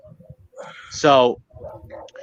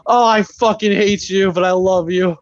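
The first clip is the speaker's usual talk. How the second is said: exasperated affection; 4 semitones higher, 3 dB louder than usual. Retold or imitated. Retelling wife hugging husband after scare, exasperated affection. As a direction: drag it out, cross yet loving.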